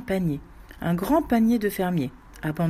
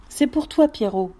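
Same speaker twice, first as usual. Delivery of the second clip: higher, louder coaxing to the dog; insistent coaxing; 3 semitones higher, 4 dB louder than usual. Acted. Women coaxing the dog in the well, higher insistent call. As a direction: insist the bite is his. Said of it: "Elles avaient beau spécifier".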